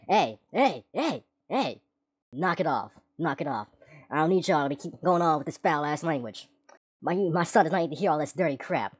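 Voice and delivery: lightly voiced stern father telling kids off; a hint of a hard-ass dad saying knock it off; imitated scolding dad. Tall dad scolding cursing teens on the trail, lightly imitated stern voice.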